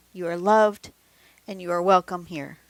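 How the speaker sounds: sincere, emphatic reassurance; reassuring. Real, not acted. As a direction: tell the viewer they matter. Reassuring the viewer.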